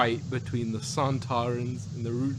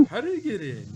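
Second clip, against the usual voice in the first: quoting a startled line; 8 semitones higher, faster than usual. Retold or imitated. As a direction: blurt it out like the character. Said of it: "that line comes to mind".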